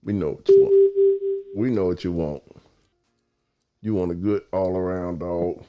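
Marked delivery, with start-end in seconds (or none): 0.0-1.6 whispered promise. Shown as a demonstration. Repeated promise, whispered first.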